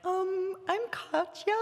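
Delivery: put-on high, Katya's light Belgian accent. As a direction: introduce yourself with a faint Belgian accent. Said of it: "How did you get that accent?".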